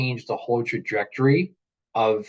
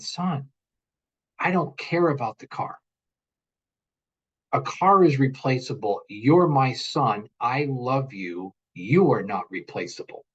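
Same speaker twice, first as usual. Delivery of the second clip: tender reassurance. Retold or imitated. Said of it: "And I said".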